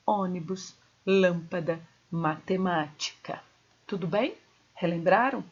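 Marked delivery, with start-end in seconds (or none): 0.1-3.4 "Ônibus, lâmpada, matemática" leaning on the third-last syllable; stress on antepenultimate syllable. Shown as a demonstration. Teacher gives proparoxytone examples, antepenultimate stress. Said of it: "a sílaba tônica é a antepenúltima".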